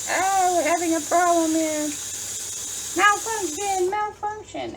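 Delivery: high robotic malfunction voice. Pretend. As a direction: play a glitching robot. The glue gun fails.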